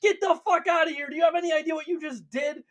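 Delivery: mock outrage at the son who broke the wall; angry Emperor. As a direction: scold him like an outraged father, fast at the end. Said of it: "And Emperor's like".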